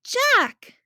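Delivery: loud high yell of a name. A narrator's reading. Augie yelling for Jack in the dark, loud. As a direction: call into the dark. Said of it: "I yelled".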